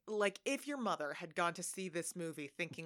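normal talking voice

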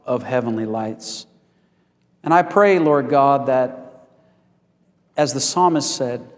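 measured prayer with reverent pauses; public prayer. Real, not acted. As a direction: pray aloud, unhurried, phrase by phrase. Leads the congregation in prayer.

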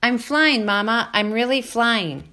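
high, loud delighted gosling; joyful call. A narrator's reading. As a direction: shout to mama, overjoyed. Gosling shouts joy while flying.

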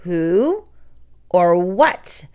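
a hint of eerie monster voice; the hidden spider toys with the boys, wicked; wicked teasing voice. A narrator's reading. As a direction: tease the boys from the dark. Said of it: "with a wicked little chuckle".

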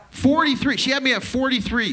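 a comic outraged repeat of the age; incredulous exclaim. Acted. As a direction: hit forty-three like it's unbelievable.

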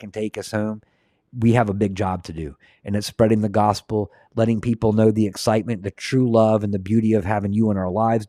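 earnest spoken prayer, steady and unhurried. Real, not acted. Host praying to close the stream, earnest. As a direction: pray over the viewers sincerely.

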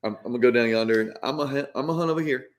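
Southern hunting-buddy talk; Southern accent. Shown as a demonstration. Mississippi man talking to hunting buddies, Southern accent. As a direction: turn on the country Southern accent. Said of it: "Do you turn it on".

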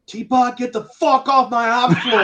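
high, loud retold bawling-out; fired-up boss. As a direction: imitate a boss ordering someone out. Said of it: "He was so fired up".

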